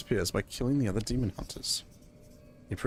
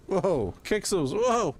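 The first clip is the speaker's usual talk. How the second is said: on a roller coaster; 10 semitones higher, much slower than usual. Real, not acted. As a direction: yell like riding a coaster. Flinging across map in game.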